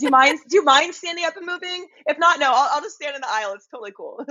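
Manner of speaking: apologizing to the whole row; overly apologetic. Retold or imitated. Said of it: "I'm like".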